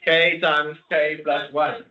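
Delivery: slow, hammed-up pretend Russian; mock Russian accent. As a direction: drag it out in jokey fake Russian. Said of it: "That was Russian".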